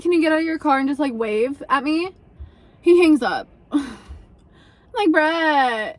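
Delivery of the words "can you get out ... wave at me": half-yelled plea to the no-show driver; exasperated request. Retold or imitated. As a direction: call out to him, fed up. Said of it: "But I'm like".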